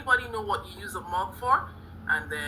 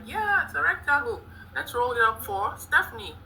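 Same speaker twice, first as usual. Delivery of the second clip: higher-pitched, delighted teacher praise; excited praise; 4 semitones higher than usual. Pretend. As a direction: cheer on an imagined pupil. Teacher praising an imagined pupil's answer.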